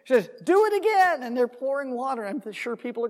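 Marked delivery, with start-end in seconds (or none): 0.4-1.2 loud, high called-out order; acted command. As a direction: call the order out as the prophet. Retells Elijah ordering more water.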